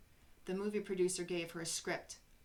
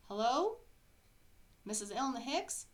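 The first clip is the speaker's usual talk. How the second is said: eager caller, higher and louder; chirpy salesman on the phone; 5 semitones higher, 5 dB louder than usual. Acted. Caller phoning Elna with big news, eager.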